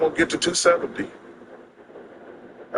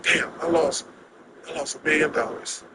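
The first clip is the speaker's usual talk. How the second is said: subdued, softer retelling of dejection; depressed; 4 dB quieter than usual. Retold or imitated. Gambler to himself after a huge loss, mock-depressed. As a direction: let it sink quietly, acting out the gloom. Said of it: "depressed for a week".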